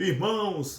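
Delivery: heavy, thick-voiced preacher pulpit voice. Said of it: "o pastor tá falando grossão".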